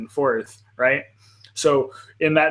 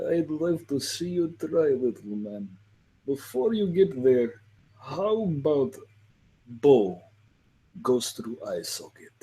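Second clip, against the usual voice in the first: haughty elf voice; 4 dB quieter than usual. Acted. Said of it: "I would probably be like".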